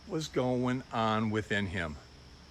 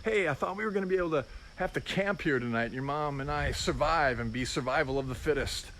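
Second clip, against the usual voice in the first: playful laughing greeting. Pretend. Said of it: "greeted him in love and laughed".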